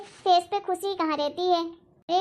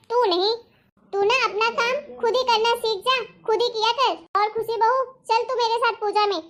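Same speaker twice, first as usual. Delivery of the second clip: बेटे को हक जताकर टोकती सास; सख्ती से बहू का पक्ष लो; हल्का गुस्सा; 3 semitones higher than usual. Acted. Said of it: "मेरे ऊपर गुस्सा हो गई आप". (माँ की हल्के गुस्से वाली डांट)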